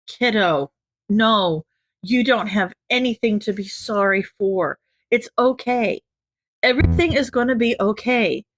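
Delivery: calm him down gently; soothing. Acted. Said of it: "they tried to s-, soothe".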